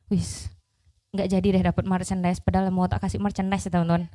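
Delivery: mock letdown. Mock letdown after audience stays silent.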